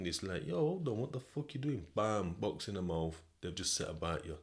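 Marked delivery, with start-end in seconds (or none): 0.4-1.9 a startled outburst, voice jumping up; alarmed outburst. Retold or imitated. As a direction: shout it as the door gets jammed shut. Alarmed quote when attacked.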